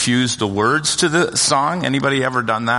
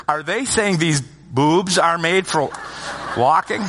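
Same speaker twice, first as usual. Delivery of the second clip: slow, higher-pitched imitated shock; shock and horror; 5 semitones higher, slower than usual. Six-year-old asking mom about lyrics, shocked and horrified. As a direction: imitate a scandalized child asking slowly. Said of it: "turns to my wife in shock and horror".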